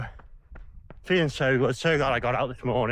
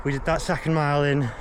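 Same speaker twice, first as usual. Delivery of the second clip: panting, pushing through pain; out of breath. Real, not acted. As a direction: gasp out the words. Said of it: "Can't even aim the camera".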